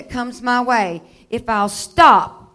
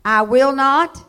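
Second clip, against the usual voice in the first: loud, ringing declaration for the church to echo; emphatic call to repeat; 3 semitones higher, 9 dB louder, slower than usual. Shown as a demonstration. Preacher leading the church in a loud declaration. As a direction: lead the congregation, each word hammered. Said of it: "say this with me".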